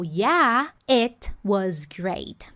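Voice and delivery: slow, falling "it was great"; imitating her. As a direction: copy her casual reply slowly. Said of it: "Então ela falou".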